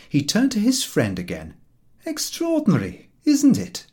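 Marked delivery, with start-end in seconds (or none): 2.1-3.9 horse's remark. A narrator's reading. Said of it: "he remarked".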